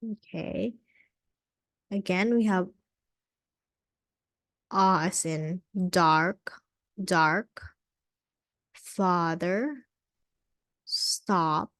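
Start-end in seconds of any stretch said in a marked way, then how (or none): 4.7-7.6 dark with a long open ah; clear ah sound. Shown as a demonstration. Teacher modelling dark for the class. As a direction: stretch the ah in dark slowly. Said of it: "Listen again".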